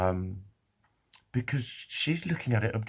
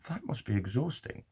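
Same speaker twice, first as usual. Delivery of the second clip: kindly; 3 semitones higher, 4 dB quieter than usual. Retold or imitated. Girl sympathising with his uncertainty, kindly. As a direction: say it softly with kind concern. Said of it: "she said it really kindly".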